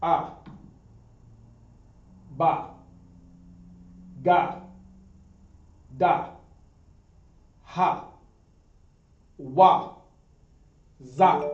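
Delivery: each letter sounded out loud and separately; alphabet recited. Shown as a demonstration. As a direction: call out each Hebrew letter with a pause. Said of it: "we're gonna go through the alphabet".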